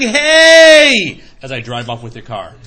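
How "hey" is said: mock yell. Owner yells at car thief.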